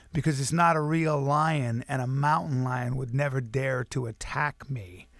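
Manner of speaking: slow, deliberate, lightly voiced intimidating dad; a hint of a grave, dangerous man, spaced out; menacing father. Father explaining mountain lions to son, slow mild menace.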